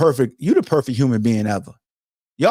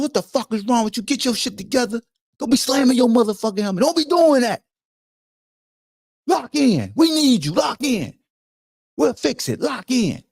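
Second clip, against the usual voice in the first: a higher, pushy coach voice; scolding coach; 8 semitones higher than usual. Retold or imitated. Andy Reid scolding Travis on the sideline, higher pushy voice. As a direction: chew him out, then rally him.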